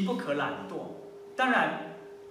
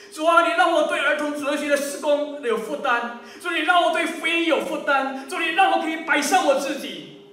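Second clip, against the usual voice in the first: high, loud plea to God; fervent prayer; 6 semitones higher, 6 dB louder than usual. Acted. Preacher models asking God for a burden, fervent prayer. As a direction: pray it urgently, pitched up.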